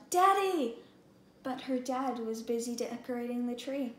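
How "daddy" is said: loud, high call for her father; yelling. Acted. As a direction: shout for dad from the box. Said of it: "Julie yelled".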